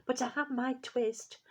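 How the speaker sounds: a lightly voiced tired old tailor; weary old tailor. A narrator's reading. Old tailor wakes and sees his twist, lightly weary. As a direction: sigh it out as a worn-out old man.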